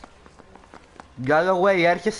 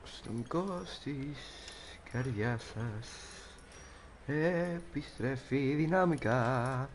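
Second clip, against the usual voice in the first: very slow, soft tagline; hushed, drawn-out mock show intro; mock announcer; 12 dB quieter, much slower than usual. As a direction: stretch each word out quietly.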